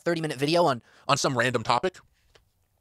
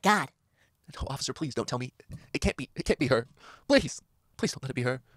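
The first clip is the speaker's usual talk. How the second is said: soft, lower, hammed-up pleading; melodramatic movie plea; 4 semitones lower, 5 dB quieter than usual. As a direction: play the distraught soap hero. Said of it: "like in those dramatic movies".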